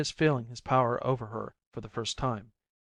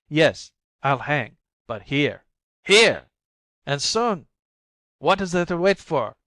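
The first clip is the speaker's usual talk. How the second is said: slow, then rising to a higher, louder cry; desperate; 4 semitones higher, 7 dB louder than usual. A narrator's reading. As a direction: break into despair. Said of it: "In desperation".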